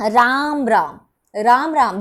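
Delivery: "राम राम" with long vowels, voice gliding down; drawn-out greeting. Shown as a demonstration. Teacher showing students the greeting, words drawn out. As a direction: stretch "राम राम", falling at the end. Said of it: "पदों को खींच कर बोल रहे हो".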